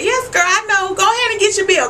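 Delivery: high, gushing hype for Sookie; excited cheering. Real, not acted. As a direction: egg her on, thrilled and squealing.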